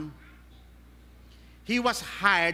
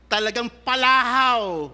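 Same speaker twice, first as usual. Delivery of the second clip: loud wail; 5 dB louder than usual. Shown as a demonstration. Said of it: "bitter cry".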